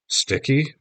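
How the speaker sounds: high startled question; gasp of surprise. Acted. Mom realizes the gecko is Sticky, gasping. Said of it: "my mom gasped".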